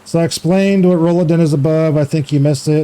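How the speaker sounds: ordinary delivery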